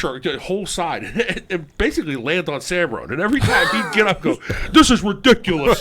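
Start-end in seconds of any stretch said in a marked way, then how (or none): 4.7-5.8 high, loud complaining voice with a laugh; whiny teammate impression. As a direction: imitate a whining lineman, laughing. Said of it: "you talk like that too".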